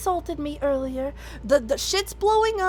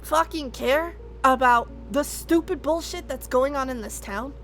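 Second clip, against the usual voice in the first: angry rant. Acted. Character ranting while tied up.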